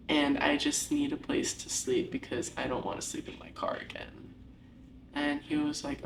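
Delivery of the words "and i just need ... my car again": near whisper. Retold or imitated. Pleading to dad, unvoiced.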